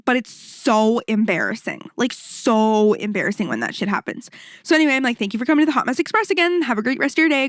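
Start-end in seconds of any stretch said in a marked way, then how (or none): 5.2-7.5 quick, lifted instructor patter; retold rote goodbye to a class; cheery class sign-off. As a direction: rattle off a perky thank-you, pitch up.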